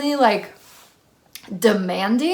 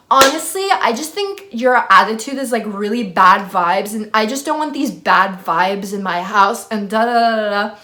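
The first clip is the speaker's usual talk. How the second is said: louder, mock-indignant roommate; irritated retort; 4 dB louder than usual. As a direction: rattle off her complaint with a touch of exasperation. Roommate's heated complaint, retold.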